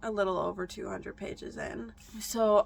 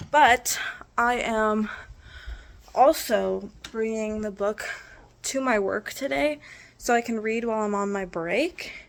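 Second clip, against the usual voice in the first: out of breath; 7 dB louder than usual. Real, not acted. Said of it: "sorry I'm out of breath".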